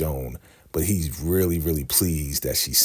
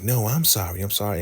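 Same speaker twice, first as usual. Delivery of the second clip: higher-pitched retold apology; apologetic; 5 semitones higher than usual.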